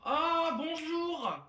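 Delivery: high, drawn-out yelled good morning; loud shouted hello. Acted. Mother yelling good morning at her sleeping son. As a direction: bellow it to wake the house. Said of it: "pourquoi tu cries, maman?".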